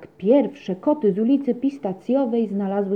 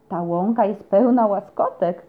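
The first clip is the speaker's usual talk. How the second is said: delighted exclaim; 4 dB louder than usual. Acted. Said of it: "krzyknęła zachwycona".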